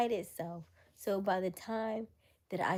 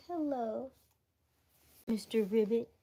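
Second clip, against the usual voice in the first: lightly acted, higher-pitched hello; playful toad greeting; 6 semitones higher, 5 dB louder than usual. Showing how they'd greet a toad, playful high hello. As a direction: greet a little creature in a raised playful voice.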